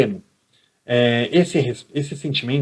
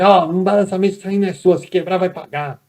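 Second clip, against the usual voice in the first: higher, louder stern rebuke; harsh teacher; 5 semitones higher, 4 dB louder than usual. Retold or imitated. Teacher harshly scolding a pupil over the desk, stern rebuke. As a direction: bark the order at the pupil. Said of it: "Não pode chegar e falar assim".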